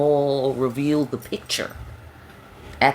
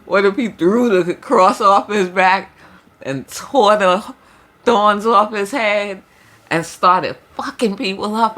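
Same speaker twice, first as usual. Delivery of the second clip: louder, slower, higher excited telling; amused build-up; 5 semitones higher, 6 dB louder than usual. Real, not acted. Reader spins the image of Jesus fighting, excited build-up. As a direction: build the picture gleefully.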